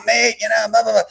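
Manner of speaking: imitated English accent, pitched high. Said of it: "kind of an English accent".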